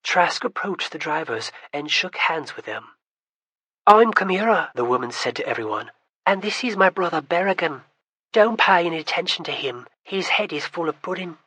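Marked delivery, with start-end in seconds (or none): 3.9-11.4 bright teasing introduction, mocking her brother; teasing young woman. Kamira introduces her brother to the group, teasing.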